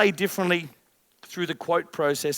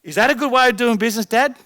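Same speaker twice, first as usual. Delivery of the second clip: daughter asking; 5 semitones higher, 5 dB louder, faster than usual. Pretend. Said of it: "If you asked your seven-year-old daughter".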